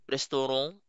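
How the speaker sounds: "restaurant" said res-toh-ROHN, French nasal end, rising. Shown as a demonstration. Teacher modelling the French "restaurant" again for learners. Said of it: "this one is pronounced as".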